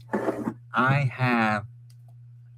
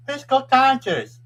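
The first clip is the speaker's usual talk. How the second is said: high, loud drawn-out fan cheer; 13 semitones higher, 12 dB louder, slower than usual. Real, not acted. Fan hyping the Dodgers in chat, excited shout. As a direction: cheer the team on at full voice.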